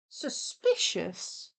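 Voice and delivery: slow whispered word. Pretend. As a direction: whisper it slowly, suspicious. Dramatic whisper.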